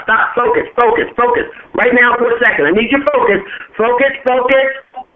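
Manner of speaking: rally the room to pay attention now; urgent call for focus. Real, not acted. Speaker demands the audience's attention.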